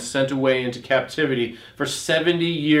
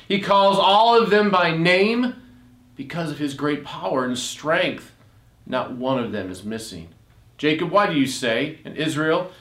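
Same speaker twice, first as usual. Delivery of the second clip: measured, solemn reading of scripture; lifting the words as holy writ. Acted. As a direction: read it like a sermon text. Reads Isaiah passage aloud.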